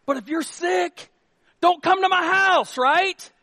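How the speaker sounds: half-joking high scold; don't come to my house pushed high and loud; high emphatic warning. Acted. Pastor warning sick visitors.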